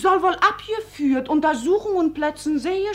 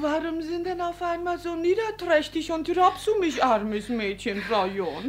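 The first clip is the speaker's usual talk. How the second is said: softer, crying complaint; tearful reproach; 2 semitones higher, 5 dB quieter than usual. Acted. Maid tearfully asking Frau John why she is cruel. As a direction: whimper it through tears.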